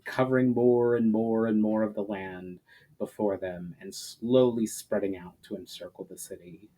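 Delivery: measured, even storybook reading; story narration. A narrator's reading. Audiobook host reading a fantasy chapter to listeners, steady narration. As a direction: carry the listener through the siege chapter.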